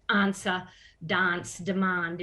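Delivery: "answer, dance, demand" with long broad "ah" vowels; slow "answer, dance, demand" as ahn-ser, dahnce, de-mahnd; Adelaide pronunciation. Shown as a demonstration. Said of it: "much more characteristic of Adelaide".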